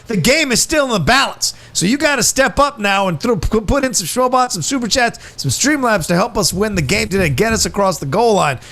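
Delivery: hype announcer. Acted. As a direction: pump up the donations like a coach. Hyping donations like sportscaster.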